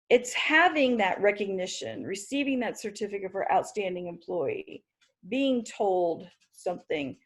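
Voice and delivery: talking while choking on a drink. Real, not acted. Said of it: "I am choking".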